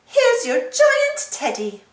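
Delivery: high, slow rabbit stall keeper; Miss Rabbit voice. Acted. Miss Rabbit gives Mummy Pig the giant teddy, in a high slow voice. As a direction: hand over the prize in a high bright voice.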